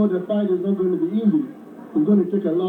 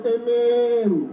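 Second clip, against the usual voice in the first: long held answering call; householder answering. Acted. Householder inviting the visitor in, drawn-out answering call. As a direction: stretch the final syllable in reply. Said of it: "He says".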